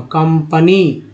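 कंपनी slowly, with a short 'uh' in the middle; schwa in कंपनी. Shown as a demonstration. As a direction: draw out कंपनी as kum-puh-nee. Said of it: "जो उच्चारण है वो अ के रूप में".

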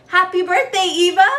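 loud, high greeting; called out. A narrator's reading. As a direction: call out her name with joy. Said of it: "he called out".

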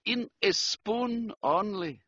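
put-on slow, high sigh in a German accent; mildly mournful, drawn out. A narrator's reading. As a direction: sigh it regretfully as a German count. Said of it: "sighed the Count".

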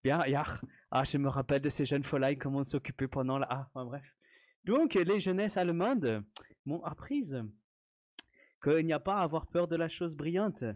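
put-on a touch of a German accent. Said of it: "faut que je la joue avec l'accent allemand". (léger accent allemand)

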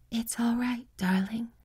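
high, soft breathy whisper; tender dying whisper; breathed. A narrator's reading. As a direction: breathe it out, hopelessly weak. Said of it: "she breathed".

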